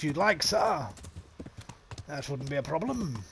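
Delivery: mock-posh Queen's English. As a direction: put on a proper Queen's English accent. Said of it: "I could speak the proper Queen's English".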